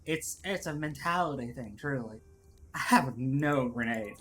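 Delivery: measured, put-on Southern accent. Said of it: "harder to get into the southernisms".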